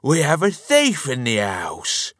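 high-pitched cry of alarm; wailing alarm. A narrator's reading. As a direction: raise the alarm in a wail. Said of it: "Mister Grunt wailed".

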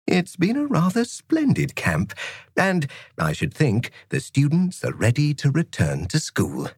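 bright, cheerful gentleman teacher; breezy, good-humoured schoolmaster; jolly teacher voice. Acted. Narrator voices Mister Bambuckle.

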